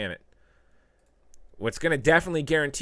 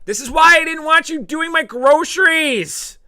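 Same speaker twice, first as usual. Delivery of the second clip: high, loud, slow mock scold; loud high comic complaint; put-on scolding voice; 11 dB louder, slower than usual. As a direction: scold like a fussy old lady. Funny put-on voice.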